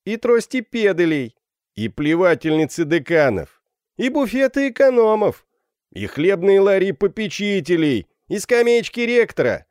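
high, loud calls from a crowd; rowdy shouts. A narrator's reading. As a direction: toss in each item as a cry. Students shout additions in turn. (наперебой выкрикивать)

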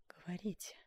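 barely audible whisper. A narrator's reading. Duchess daring the sculptor, whispered. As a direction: breathe it, a hushed dare. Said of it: "И чуть слышно добавила".

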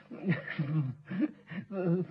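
awkward chuckle trailing the excuse; nervous laugh. Acted. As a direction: laugh it off uneasily. Agent nervously explains the repair bill.

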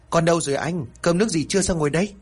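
put-on a wife searching for her child; worried question. A narrator's reading.

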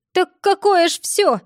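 high, loud lively granny; perked-up old woman. A narrator's reading. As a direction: suddenly perk up like a granny. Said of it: "вдруг ожила бабулька".

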